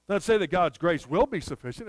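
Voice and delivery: "will" punched as the word being denied; stress on will. Shown as a demonstration. Preacher ruling out future grace, stress on "will". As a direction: lean on "will" to rule out the future. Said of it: "It says God's grace is".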